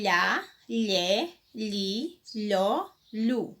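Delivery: each LH syllable sounded out separately; syllable drill. Shown as a demonstration. Teacher introduces the LH family, syllable drill. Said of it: "agora nós vamos com a família do L H".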